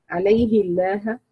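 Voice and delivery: "عليه الله" slowly, with a light, unemphatic l in "الله"; thin lam. Shown as a demonstration. Teacher demonstrates the reading, "عليه الله" with a light lam. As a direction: keep the lam of "الله" thin after the kasra. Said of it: "مع ترقيق اللام".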